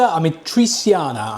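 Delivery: put-on slow, hammy Italian accent. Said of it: "with a weird Italian accent".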